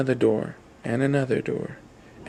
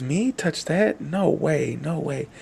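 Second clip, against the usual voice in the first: higher, panicky pitch on the refusal; frightened refusal; 4 semitones higher, slower than usual. Acted. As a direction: recoil from the monster, voice jumping up. Guest refuses to touch monster.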